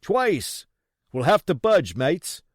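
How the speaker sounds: loud, high urgent warning; uneasy pirate. Acted. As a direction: urge the mates to flee. Pirate continues.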